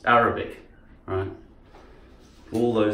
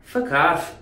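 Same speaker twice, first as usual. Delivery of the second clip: higher Scottish curse; Scottish accent; 5 semitones higher than usual. Shown as a demonstration. Speaker showing how Scots swear, Scottish accent. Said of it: "I used to think they said fuck".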